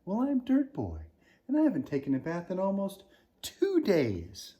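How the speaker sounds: high, bold shouted reply; shouting back. Acted. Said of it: "he shouted back".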